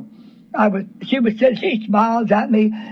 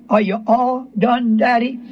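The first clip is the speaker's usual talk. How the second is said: imitated gentle question. Believer to God after being corrected, gently. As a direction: ask gently, echoing the little girl. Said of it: "Real gentle".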